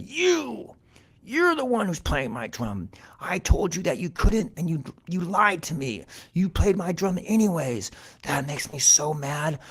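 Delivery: high-pitched indignant cat voice; mad cat. A narrator's reading. Cat confronts Mouse over the drum, high angry accusation. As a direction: accuse him in squeaky outrage. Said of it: "and he was so mad".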